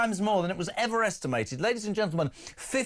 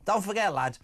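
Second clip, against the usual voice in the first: high-pitched jokey Scouse; hammed-up Liverpool accent; 5 semitones higher than usual. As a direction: put on a higher Scouse voice. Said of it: "you're killing me with your accent".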